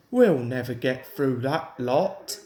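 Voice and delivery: the fireman blurting out, low-voiced; exclaiming fireman. A narrator's reading. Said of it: "exclaimed the fireman".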